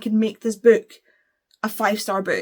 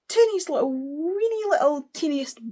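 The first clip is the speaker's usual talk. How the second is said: tiny voice; 7 semitones higher than usual. Real, not acted. Reviewer minimizing the queer content, "teeniest" in a tiny high voice.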